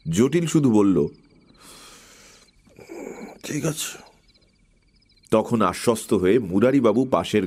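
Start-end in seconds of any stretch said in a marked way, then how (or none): 3.4-4.1 sleepy murmur. A narrator's reading. Sleepy servant answers.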